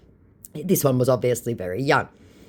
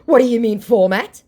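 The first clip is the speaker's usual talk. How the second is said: higher, louder retold challenge; mock baffled scammer; 9 semitones higher, 7 dB louder than usual. Scammer questioning the baiter's remark, mock baffled. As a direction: put on the scammer's indignant question.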